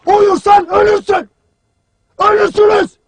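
forceful military warning; shouted warning. Acted. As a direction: drive the warning into the whole troop. Commander warns troops, shouting.

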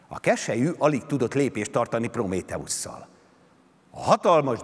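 ordinary delivery, nothing marked

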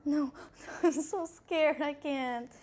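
high, whining scared protest; nervous fear. Real, not acted. Scared by sounds in the maze.

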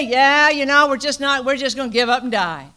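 loud, careless giving-up voice; defeatist pretend quote. University staff pretending to give up: loud shrugging resignation. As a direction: shrug it off as if quitting is fine. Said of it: "We could say".

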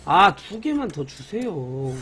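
slow, begging drawn-out 개만; 느리게 애원하듯; pleading request. Real, not acted. Begging the game politely.

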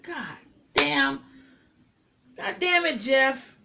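loud, high frustrated outburst; fed-up groan at a dumb decision; exasperated cursing. Retold or imitated. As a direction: throw up your hands at him. Exasperated at character's choice.

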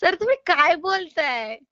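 slow, amused disbelief; incredulous question on the edge of laughing; holding back laughter. Real, not acted. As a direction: ask while stifling a laugh. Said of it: "हसू नका हो madam".

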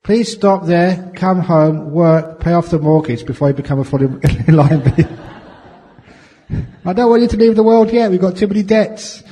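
high, loud alarmed wife pleading; upset wife. Retold or imitated. Wife begging her husband on the phone to come home, high and loud. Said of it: "his wife got really upset".

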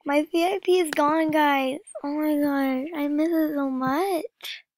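slow, mournful complaint; sad lament. Real, not acted. Vlogger to viewers, sadly mourning her lost VIP. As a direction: grieve over the lost VIP. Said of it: "Why am I so sad about this?".

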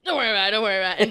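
rattled off very fast; quick nervous brush-off; rushed brush-off. Retold or imitated. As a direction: hurry past it, fast and dismissive. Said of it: "He's like".

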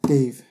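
DAVE said alone as one clean beat; one-beat demo. Shown as a demonstration. Teacher showing that Dave has one beat, one-beat demo. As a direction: say "Dave" by itself, one falling syllable. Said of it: "has one beat".

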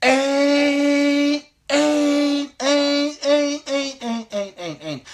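high duck call, tapering down; hail call. Shown as a demonstration. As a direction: start high on ain't, then taper down. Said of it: "Notice I started high".

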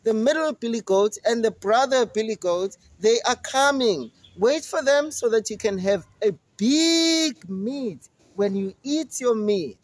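coaxing the monster to wait; goat voice. Acted.

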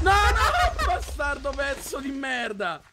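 insulti tra le risate, più lenti; ridendo e imprecando. Real, not acted. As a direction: impreca ridendo contro il creeper. Creeper explodes, swearing laughing. (ride e impreca contro il creeper)

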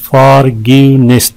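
"फॉरगिवनेस" in three measured beats; syllable breakdown. Shown as a demonstration. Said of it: "तीन है इसमें". ("फॉरगिवनेस" हिस्सा-हिस्सा करके)

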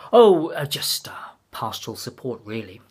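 whispered, hesitant excuse; evasive whisper. Acted. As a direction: mumble it away, caught out. Caught out, evasive answer.

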